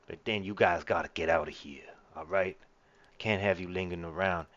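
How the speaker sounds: lightly voiced gangster; a touch of gangster talk. Henchman warning visitors off before the boss shows up, lightly voiced gangster. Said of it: "like a gangster or something".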